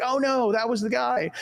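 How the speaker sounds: retold dismay. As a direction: act out realizing your mistake. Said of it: "And I'm like".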